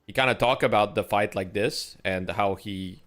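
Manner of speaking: heavy Quebec French accent; English with a strong Quebec accent; French Canadian accent. Shown as a demonstration. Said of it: "that's literally how it sounds".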